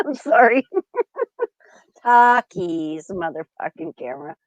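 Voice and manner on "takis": "Takis" as "TAH-kees", held long; trying it out. Shown as a demonstration. Practising the chip name while laughing. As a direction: stretch "Takis" with an ah vowel. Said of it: "how do you pronounce it correctly?".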